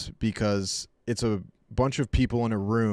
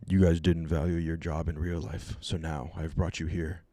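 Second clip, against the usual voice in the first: lower, menacing Saw puppet voice; 5 semitones lower than usual. Pretend. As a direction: play the Jigsaw killer addressing his victims. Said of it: "he would dress up as Saw".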